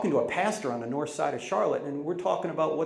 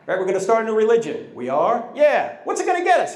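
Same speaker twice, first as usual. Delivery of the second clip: mock disciples chatting; 7 semitones higher, 7 dB louder than usual.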